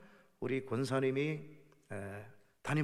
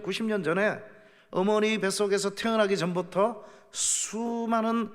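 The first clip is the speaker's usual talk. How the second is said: higher, louder preacher's call; preaching at full force; 5 semitones higher, 4 dB louder than usual. Acted. Pastor urging the congregation about the book of life, fervent preaching. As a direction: drive the point home to the pews.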